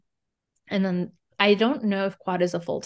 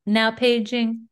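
slow announcer page; 3 semitones higher, much slower than usual. Pretend. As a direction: call it out like a PA. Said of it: "being announced like that".

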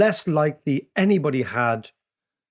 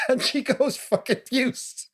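laughing whisper; 10 semitones higher, slower than usual. Real, not acted. Laughing while telling the punchline.

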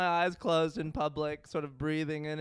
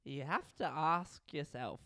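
put-on little-orphan British accent; 5 dB quieter than usual. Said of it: "He sounds like a little orphan".

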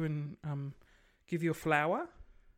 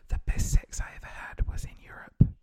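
whisper; 3 dB louder than usual. Real, not acted. Confiding a juicy travel secret.

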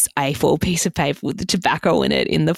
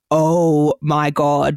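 slow, drawn-out retold panic; mock panic; 3 dB louder, much slower than usual. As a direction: stretch it out like you're reliving the panic. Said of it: "just absolutely panicking".

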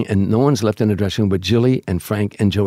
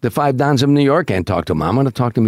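higher, stressed disbelief; incredulous protest; 3 semitones higher than usual. Retold or imitated. Julie asked to talk to Joey Gallo, incredulous protest. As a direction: protest the absurd request, hitting "Me". Julie balks at approaching the mobster.

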